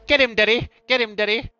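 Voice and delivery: high, loud farmer impression; imitated Kerry farmer. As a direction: yell it high like the farmer in the clip. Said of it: "Is that the one that goes".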